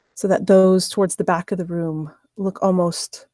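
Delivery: measured narration with suspenseful pauses; game master's scene setting. Acted. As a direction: set the scene phrase by phrase, letting pauses hang.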